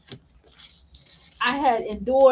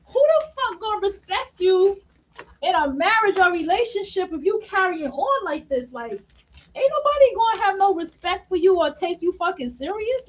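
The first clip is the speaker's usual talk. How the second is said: indignant retort; 5 semitones higher than usual. Retold or imitated. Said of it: "And I'm like".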